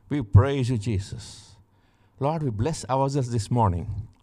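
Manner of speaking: fervent spoken prayer, rising in pitch as blessings build; closing prayer. Acted. Preacher prays blessing over his listeners, fervent and rising. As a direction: pray a blessing over the listeners with mounting fervour.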